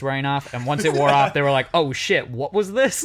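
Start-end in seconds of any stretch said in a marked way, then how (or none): 1.7-3.0 mock studio panic. Studio realizing what they nearly made.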